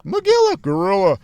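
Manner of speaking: sung-out call and answer; calling out a password. Retold or imitated. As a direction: call the password across the dark house. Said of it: "if I call out".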